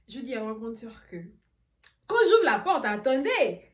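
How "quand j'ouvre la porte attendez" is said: loud, high, laughing through the words; bursting out laughing. Real, not acted. Telling the story, she cracks up, loud.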